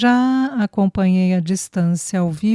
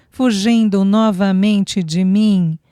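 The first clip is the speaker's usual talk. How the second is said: slow, louder, affectionate reproach; tender scolding; 4 dB louder, slower than usual. Acted. Nanny gently scolding the runaway girl, slow fond reproach. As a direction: scold her but lovingly. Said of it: "repreendeu-a com carinho".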